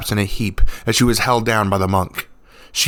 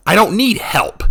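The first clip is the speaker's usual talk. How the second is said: high, loud angry snap; snapped; 12 semitones higher, 4 dB louder than usual. A narrator's reading. Revna snaps at the monk offering help. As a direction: throw the offer back at him. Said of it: "she snapped back".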